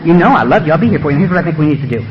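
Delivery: low, smooth pledges of devotion; coaxing beast. Acted. The beast swearing love to Earl, coaxing. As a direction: reassure like a manipulative old friend. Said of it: "the beast whispers up and say".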